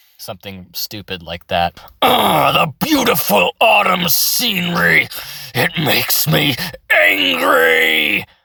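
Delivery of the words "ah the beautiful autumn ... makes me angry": loud, constricted, rough, drawn-out brute-creature rasp. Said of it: "you get that kind of low pitch".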